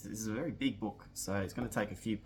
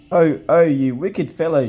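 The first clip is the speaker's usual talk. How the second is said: higher, much louder outraged cry; girl's indignant cry; 6 semitones higher, 17 dB louder than usual. Acted. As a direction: yelp at the pixie who splashed her with ink. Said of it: "she cried".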